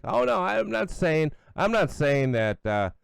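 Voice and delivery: high, slowed mock-innocent imitation; mocking Joe Kent. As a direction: ham up a weaselly denial. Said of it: "He's like".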